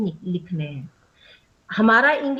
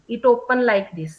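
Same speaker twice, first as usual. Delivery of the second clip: ungrammatical quote; much slower than usual. Shown as a demonstration. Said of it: "जो उसने बोला है वैसा ही लिखना है".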